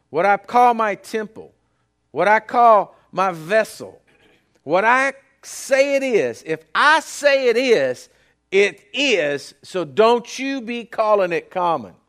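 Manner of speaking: loud, slow, rising proclamation of God's word; booming voice of God. Retold or imitated. Preacher voicing God to Peter, loud and commanding. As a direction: proclaim it like God laying down the law. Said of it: "God says".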